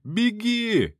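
high urgent yell; shout. A narrator's reading. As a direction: call out to run. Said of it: "крикнул я".

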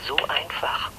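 whispered, almost to herself. Acted. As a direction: breathe it out in wonder.

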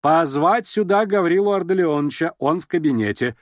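lady giving an order to the servant; commanding order. A narrator's reading. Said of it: "приказала она вошедшему слуге".

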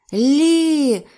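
high, loud, long cry; alarmed shout. A narrator's reading. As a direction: shout her name across the beach. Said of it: "крикнув Ейб".

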